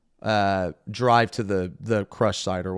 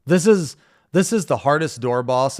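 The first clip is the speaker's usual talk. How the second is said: 1 exasperated; 6 semitones higher, 7 dB louder than usual. Real, not acted. Frustrated raid wipe.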